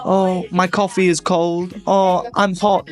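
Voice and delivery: whiny complaining. Acted. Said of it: "Charlotte is complaining".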